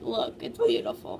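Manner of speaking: hammed-up fake sobbing; mock crying. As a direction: wail it like a mock tragedy. Mock crying over fan art.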